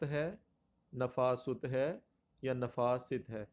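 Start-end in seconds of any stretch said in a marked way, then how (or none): 0.9-1.6 نفاست as "na-faa-SUT", u in the last syllable; pronunciation option. Shown as a demonstration. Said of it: "تو یہ لفظ کیا ہے". 2.5-3.3 نفاست as "na-faa-SIT", i in the last syllable; pronunciation option. Shown as a demonstration. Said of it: "تو یہ لفظ کیا ہے".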